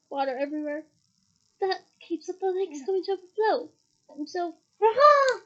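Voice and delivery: grumbling then a sudden yelp; startled cry. Acted. Ron grumbles about the rain, then yelps in surprise. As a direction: Ron cut off by a burst balloon.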